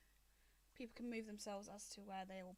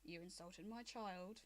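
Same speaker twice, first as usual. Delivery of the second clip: lightly voiced angry dragon mother; 2 semitones lower than usual.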